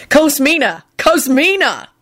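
high, hasty correction; blurting a name. Acted. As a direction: cover the slip fast. Catches himself mid name.

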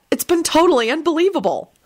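high, wondering lilt; dreamy. A narrator's reading. Woman gazing at golden sunset, dreamily amazed. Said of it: "Elizabeth thought dreamily".

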